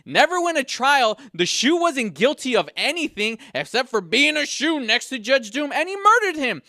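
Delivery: building outrage at a cartoon judge; heated rant. Real, not acted. Ranting about the murdered shoe.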